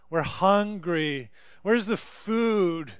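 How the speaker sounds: drawn-out, slow mock moan; slow complaining. Israelites grumbling in the desert, slow mock moan. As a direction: drag the words out like a tired complainer. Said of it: "And they start complaining".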